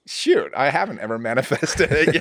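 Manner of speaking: chuckling through the line at his own realization; half-laugh as he says it; laughing to himself. Retold or imitated. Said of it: "I was, like, laughing to myself".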